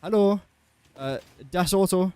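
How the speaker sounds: hesitant, lightly attempted German; badly faked German; mock German accent. Shown as a demonstration. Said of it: "I can speak German".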